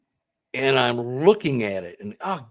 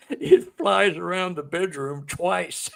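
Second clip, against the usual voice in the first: laughing through tears; 5 semitones higher, slower than usual. Real, not acted. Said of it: "I start bawling".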